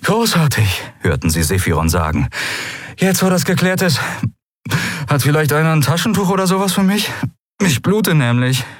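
high, fast pirate whine; whining sarcastic pirate; sarcastic Sephiron. Acted. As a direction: complain with mock cheer.

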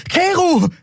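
high call across the alley; calling after. Acted. Endriel calling after the fleeing Keru, high call. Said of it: "rief Endriel ihm nach".

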